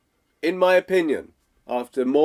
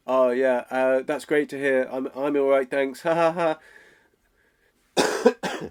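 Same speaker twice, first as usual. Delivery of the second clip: awkward laugh. Shown as a demonstration. Waffling caller, awkward laugh.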